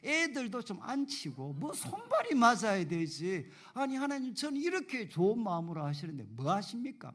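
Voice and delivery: retold complaint to God, pitch and force building; resentful prayer. Young preacher protesting to God about unruly kids, resentful. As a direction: plead your grievance, pressing harder as you go. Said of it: "하나님께 막 원망하는 그런 기도를".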